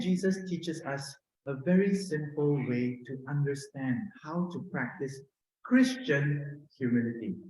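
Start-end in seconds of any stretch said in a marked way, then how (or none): 5.6-6.6 Christian drawn out and set apart; stress on Christian. Real, not acted. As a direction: lean firmly on the word Christian. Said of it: "I emphasize the word Christian".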